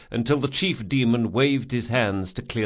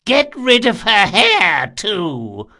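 high, loud, slow command; loud order; 10 semitones higher, 8 dB louder, slower than usual. A narrator's reading. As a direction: call the order down. Old man orders crowd.

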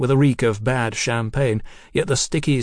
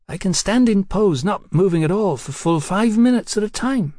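put-on slurring drunk; 8 semitones higher than usual. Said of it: "she said, slurring a bit".

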